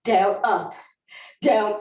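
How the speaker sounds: ordinary talk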